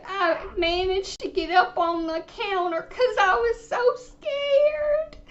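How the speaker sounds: teary, wobbling voice, pitch climbing high at the end; hammed-up fearful crying; mock scared sob. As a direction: ham up a frightened old lady near tears. Caller acts terrified, voice crying.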